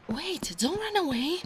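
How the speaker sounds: put-on alarmed call after a fleeing boy; calling after him. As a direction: call out as he runs off. Human flees again.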